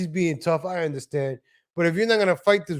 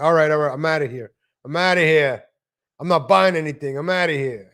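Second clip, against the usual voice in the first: a louder, retold yell, bowing out of the fight; retold loud backing off; 4 dB louder than usual. Backing away from the white knight in the supermarket, mildly yelling. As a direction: storm off mid-argument, half shouting. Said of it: "I get loud".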